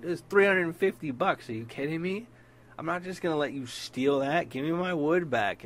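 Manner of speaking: indignant, refusing to be robbed; outraged retort. Retold or imitated. Telling the stoner he won't steal it, outraged.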